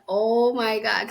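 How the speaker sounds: slow retold astonishment; amazed reaction. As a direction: marvel at a long-forgotten sound. Reaction to hearing childhood name.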